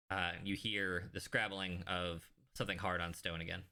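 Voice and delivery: usual speaking voice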